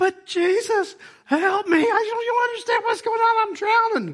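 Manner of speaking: squeaky, very high puppet voice. Retelling a prayer to Jesus when things don't go your way, Muppet-like voice. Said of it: "It's like a Muppet".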